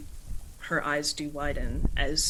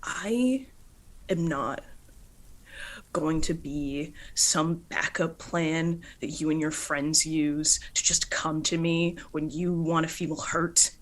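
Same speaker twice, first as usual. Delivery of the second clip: firm anger; 4 dB louder than usual. Acted. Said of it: "and just says".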